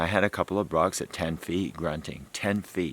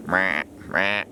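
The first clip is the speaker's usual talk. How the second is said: Casey's grunt. Retold or imitated. The speaker imitating Casey's grunt call, gentle meh. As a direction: copy Casey's little bleat. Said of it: "He kinda meh like that".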